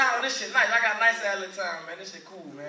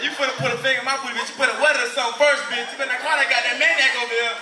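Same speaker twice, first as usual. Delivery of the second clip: louder, fast mock yell; 2 semitones higher, 6 dB louder, faster than usual. Comic to girlfriend, a fast mock yell.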